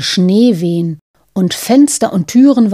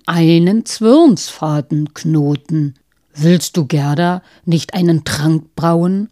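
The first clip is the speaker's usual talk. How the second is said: lower, slow pleading beast; pleading reindeer; 3 semitones lower than usual. Acted. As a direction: beg humbly in a low voice. Reindeer pleads with wise woman.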